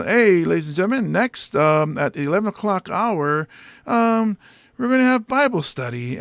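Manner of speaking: mild, polite NPR-like announcing; own unexciting announcer voice. Shown as a demonstration. Comic mocking his own voice, tame announcer. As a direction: announce it like a tame radio host. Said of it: "my voice is like".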